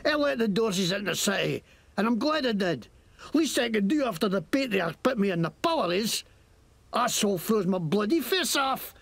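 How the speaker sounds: lightly Scottish mocking thug; Scottish accent. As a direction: sneer at them in Scots. Scottish NPC confesses.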